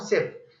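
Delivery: सिप as one separate syllable; last syllable सिप, set apart by a pause; single syllable. Shown as a demonstration. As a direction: say सिप alone, in one movement of the tongue. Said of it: "इसको मैं तीन आवाजों में अदा करता हूँ".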